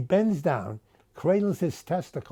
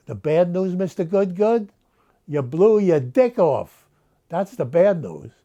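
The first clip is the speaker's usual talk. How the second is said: Muhammad booms the bad news, louder; loud punchline; 2 semitones higher, 6 dB louder than usual. Muhammad delivers punchline loudly.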